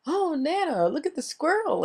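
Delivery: put-on high, bright child voice calling Nana; excited little granddaughter. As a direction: squeal it like an excited little girl spotting a squirrel. Granddaughter quoted at the park.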